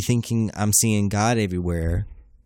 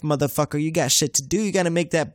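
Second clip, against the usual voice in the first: increasingly fired-up exhortation; building pep talk; 7 semitones higher than usual. Real, not acted. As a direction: start near normal and climb steadily higher. Hyped sign-off pep talk to listeners.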